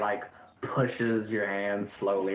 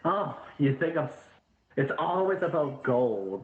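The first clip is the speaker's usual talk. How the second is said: high-pitched mock laughing delivery; high, gleeful put-on voice; acted laughing outburst; 7 semitones higher than usual. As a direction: crow it high, as if laughing at the listener. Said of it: "And then he starts laughing".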